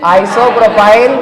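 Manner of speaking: isopropyl stretched very slowly with a rise; teacher repeating the word slowly; very slow dictation. Shown as a demonstration. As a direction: draw isopropyl out, rising at the end. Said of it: "क्या बोलेंगे?".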